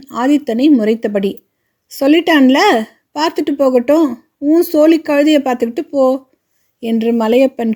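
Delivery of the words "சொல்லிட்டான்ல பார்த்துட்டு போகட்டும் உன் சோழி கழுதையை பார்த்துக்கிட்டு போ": raised, higher gruff father voice. Acted. Father telling his son to mind his business, gruff and raised. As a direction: wave the quarrel off in a raised voice. Father dismisses family quarrel.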